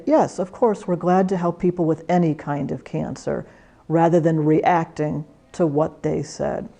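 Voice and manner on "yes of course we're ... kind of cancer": calmer. Shown as a demonstration. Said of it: "you can learn to be calmer and say".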